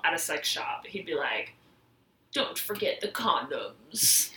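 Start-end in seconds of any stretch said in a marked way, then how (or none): 2.3-4.3 slow, soft masked villain voice; a quiet, drawn-out villain offer; Bane impression. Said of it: "That's my bad Bane impression".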